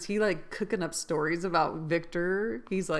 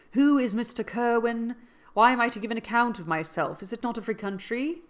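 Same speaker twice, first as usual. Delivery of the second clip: indignant; 5 semitones higher, 4 dB louder than usual. Acted. Accused traveller protests to the crowd.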